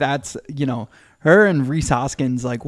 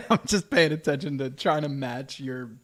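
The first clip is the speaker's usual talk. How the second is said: laughing; 4 dB quieter than usual. Real, not acted. Laughing at own distraction.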